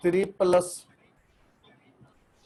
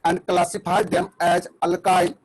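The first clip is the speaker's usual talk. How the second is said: stretched, buffering, stuttering call audio; corrupted glitchy audio; much slower than usual. Real, not acted. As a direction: voice dragging and breaking up online. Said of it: "आवाज cut cut के आ रही है".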